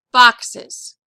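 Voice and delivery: "boxes" with a loud first syllable; stress on root. Shown as a demonstration. Teacher correcting the accent for students, "boxes" stressed on BOX. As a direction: hit BOX and drop the ES in "boxes". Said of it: "the accent".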